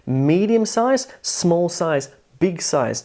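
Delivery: medium size, small size, big size as a slow stepped rhythm; demonstrating syllable sizes. Shown as a demonstration. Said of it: "So it was, like".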